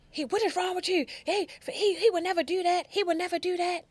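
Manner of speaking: high, loud disbelieving plea; retold protest. Father insisting his son would never do that, loudly. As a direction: defend the boy hotly. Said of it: "And he comes and".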